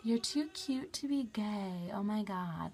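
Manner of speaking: slow, drawn-out mock gushing; mocking cliché. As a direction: parrot the annoying compliment slowly.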